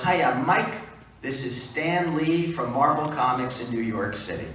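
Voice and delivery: famous caller introducing himself, hearty; exuberant Stan Lee. Retold or imitated. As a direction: announce yourself with gusto. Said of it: "an exuberant male voice".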